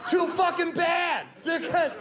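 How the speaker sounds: high, slow taunting shout; gleeful shout. Real, not acted. Taunting the uncomfortable crowd.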